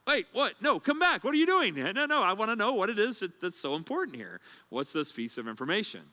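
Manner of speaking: high, loud calling after someone; pleading call. Retold or imitated. John calling after the one leaving, high pleading call. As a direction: call them back, desperate to know.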